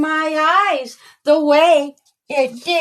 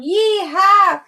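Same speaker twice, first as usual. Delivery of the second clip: a higher, gleeful holler of yee-haw; 6 semitones higher than usual. Acted. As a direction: whoop it out mid-jump. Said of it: "hollered loud".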